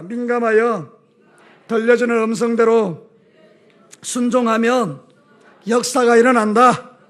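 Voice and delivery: loud, slow, each phrase set apart for the congregation to echo; preacher leading a call-and-response, slow and loud; call for repetition. Shown as a demonstration. Preacher leading the congregation in a slow, loud chant. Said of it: "저를 따라서 합시다".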